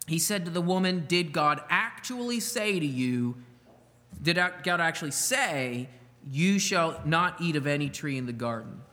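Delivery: measured Bible reading, slowing on the serpent's question; scripture reading. Acted. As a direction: read the verse deliberately. Reading Genesis aloud.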